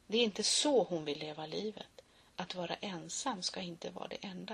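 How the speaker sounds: soft unvoiced whisper; whispered sadly; whispered line. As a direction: breathe it as a secret.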